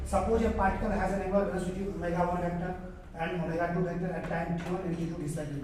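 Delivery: reads the English problem out slowly and evenly; slow textbook reading. Shown as a demonstration. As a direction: read the question aloud for the class to follow. Reads the problem statement aloud.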